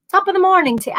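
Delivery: high, hammed-up bad British Isles accent; terrible accent. Showing how she picks up accents, terrible British Isles accent.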